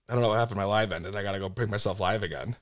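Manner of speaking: quiet aside. Real, not acted. Aside after the live ended.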